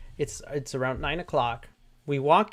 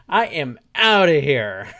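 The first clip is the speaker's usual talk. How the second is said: retold panic; 11 dB louder than usual.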